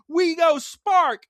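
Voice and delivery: high, loud, drawn-out battle cry; mock cheer. Host acting out the episode's cheering, high mock yell. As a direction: belt it out slowly like a triumphant cheer.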